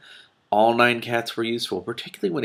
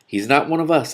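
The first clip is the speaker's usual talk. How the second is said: prim; 7 semitones higher, 6 dB louder than usual. A narrator's reading.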